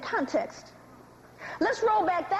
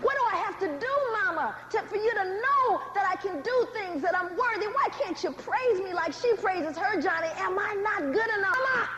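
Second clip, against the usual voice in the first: put-on crushed child; 2 semitones higher than usual. Crushed son begging parents to be proud, pleading. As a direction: plead like a hurt child wanting approval.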